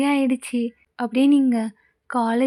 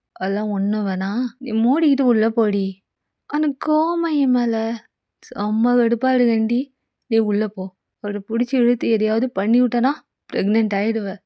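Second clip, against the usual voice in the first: a hint of a bossy boyfriend; teasing young man; 2 semitones lower than usual. Narrator voices JK.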